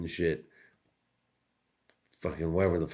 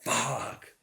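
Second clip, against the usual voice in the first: higher anguished mock voice; 8 semitones higher than usual. Comedian imitating himself reading the news, higher anguished voice. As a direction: agonize over the news, half-joking. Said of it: "be like".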